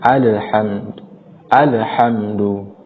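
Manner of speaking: slow "alhamdu" with a bounce released after the l; bouncing lam. Shown as a demonstration. Teacher showing the common mistake, bounced lam. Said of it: "memantulkan kalimat al".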